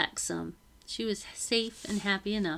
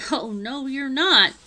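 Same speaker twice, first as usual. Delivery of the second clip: firm refusal; 5 semitones higher, 7 dB louder, slower than usual. Acted. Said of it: "Becky said".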